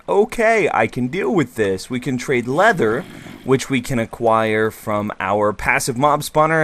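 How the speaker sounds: ordinary talk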